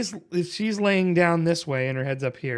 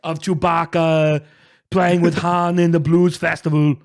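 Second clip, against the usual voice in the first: put-on Arnold accent; 3 dB louder than usual. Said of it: "it's like if Arnold was like".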